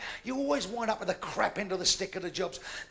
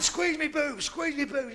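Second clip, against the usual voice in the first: high demanding woman; 5 semitones higher, 3 dB louder, slower than usual. Acted.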